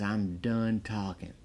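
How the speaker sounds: soft, slow, deadpan and unbothered; cool mellow Stallone. Retold or imitated. Stallone's key line, quoted cool as a cucumber. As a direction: say it like nothing rattles you. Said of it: "He just says it".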